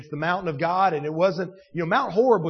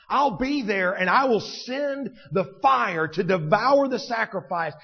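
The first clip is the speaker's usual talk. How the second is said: God's booming promise; 5 semitones higher, 4 dB louder than usual. Acted. Preacher voicing God reassuring Elijah, booming promise. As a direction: declare it big, stretching the key words. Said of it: "God is using that moment to remind".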